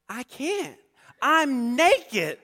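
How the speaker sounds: put-on high, squeaky kid's voice with a laugh; high-pitched preteen plea, laughing. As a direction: squeak it like a scared preteen boy. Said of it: "in my, um, preteen, high-pitched voice".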